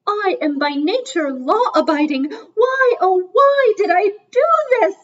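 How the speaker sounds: hammed-up wail of a guilty conscience; anguished lament. Old cob berates himself in flight, in mock anguish. Swan laments his crime.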